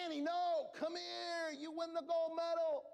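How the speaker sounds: urgent coaching call. Retold or imitated. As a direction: wave her on to the finish. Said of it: "And I said".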